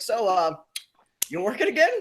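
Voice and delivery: cop impression. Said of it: "all he asks is like".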